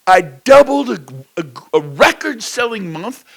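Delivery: loud, high motivational push; fired-up preaching. Real, not acted. Speaker to agents, fired-up loud preaching. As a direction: hammer the point home loudly.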